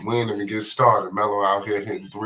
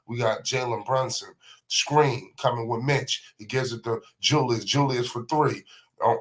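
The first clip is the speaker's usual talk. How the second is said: quick, lively sportscaster call of the action; live play-by-play; 2 semitones higher than usual. Acted. Commentator calling LaMelo Ball's Garden matinee, lively play-by-play. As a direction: call every pass like a TV announcer.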